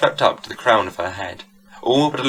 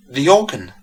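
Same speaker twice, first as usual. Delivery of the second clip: startled gasp of surprise; 4 semitones higher, 4 dB louder than usual. A narrator's reading. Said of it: "gasped Mistress Hurley".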